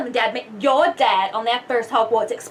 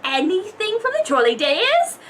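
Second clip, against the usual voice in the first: trolley witch voice; 5 semitones higher than usual. Acted. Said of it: "Trolley witch".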